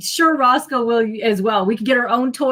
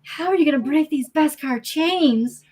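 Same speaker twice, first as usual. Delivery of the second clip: higher sneering villain taunt; 5 semitones higher than usual. Pretend. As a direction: taunt the hero. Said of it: "You're gonna say".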